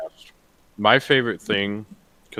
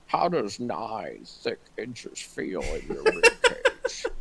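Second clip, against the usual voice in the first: slow, drawn-out line through a laugh; mock menacing slow line; imitating a cartoon villain; 3 dB quieter, much slower than usual. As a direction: savour each word, half laughing. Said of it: "the college humor thing where it's just like".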